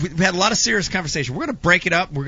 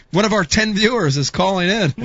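laughing self-mockery; 3 semitones higher than usual. Real, not acted. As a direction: joke told through laughter. Jokes about their tiny audience.

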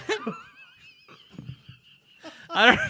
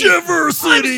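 very high loud shout; 8 dB louder, slower than usual. Acted. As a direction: scream it like an announcer. Joke announcer, shouting.

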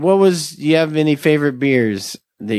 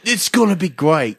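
put-on light Australian accent; a hint of Australian TV host; 2 semitones higher than usual. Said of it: "I just did an Australian accent for Brew Dogs".

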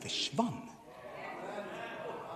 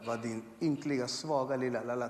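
mock self-insult; 2 semitones lower, 6 dB quieter than usual. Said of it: "jag sa så fula saker till mig själv".

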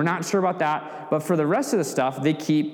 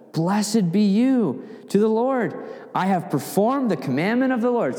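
a cheerful king boasting he did it; chipper, pleased Saul; 6 semitones higher than usual. Acted. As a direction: play Saul beaming at his obedience. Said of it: "So he's happy. He's chipper".

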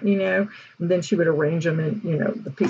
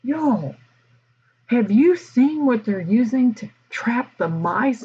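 mock outraged; 5 semitones higher, slower than usual. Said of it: "she was just outraged".

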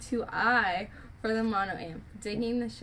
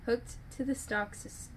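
tripping over words; stumbling, restarting words; stuttering. Real, not acted. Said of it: "I'm, like, stuttering".

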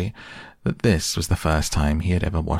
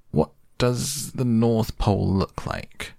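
put-on young boy voice; 5 semitones higher, slower than usual. Boy asks about North Pole.

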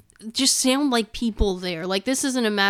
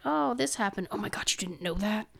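skeptical emphasis; 7 dB quieter than usual. Retold or imitated. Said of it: "it sounded like that emphasis".

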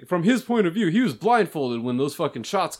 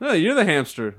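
quoting a friend; 4 semitones higher, 3 dB louder than usual. Retold or imitated. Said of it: "That's what Korn did to me".

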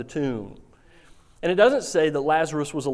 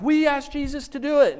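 high, sheepish answer; sheepish sisters; 12 semitones higher, 5 dB louder than usual. Acted. Mary and Martha owning up to Lazarus, high sheepish. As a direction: admit it a bit guiltily.

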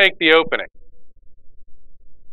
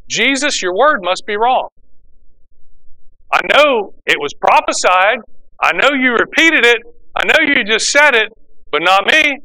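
brazen; 3 semitones higher than usual. Retold or imitated. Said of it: "How brazen is this?".

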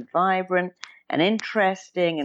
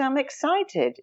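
excited; 8 semitones higher, slower than usual. Retold or imitated. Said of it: "or you can say".

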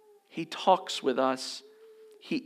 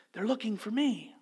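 put-on little boy voice; 7 semitones higher than usual. Punchline of phone story.

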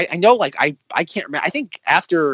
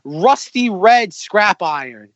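slow, drawn-out mock outrage, pitched up; James; 5 semitones higher, much slower than usual. Quoting a second insulted engine complaining, indignant. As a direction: repeat the insult word by word, affronted. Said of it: "And James goes".

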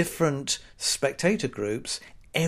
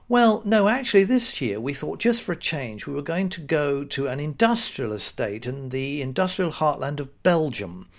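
sarcastic reply. Pretend. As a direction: answer the hairdresser with dry scorn.

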